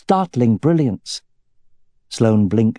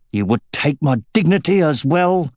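hateful; 4 semitones higher than usual. Acted. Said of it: "hate in his voice".

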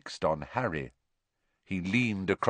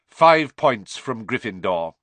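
sour Snape; 2 semitones higher, 6 dB louder than usual. Acted.

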